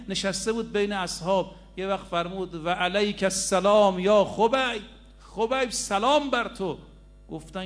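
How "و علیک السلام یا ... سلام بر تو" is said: raised, louder voice, drawn out at the end; calling out a greeting. Retold or imitated. Prophet answers Khubayb's greeting from Medina, calling out. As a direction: return a faraway greeting in a lifted, ringing call.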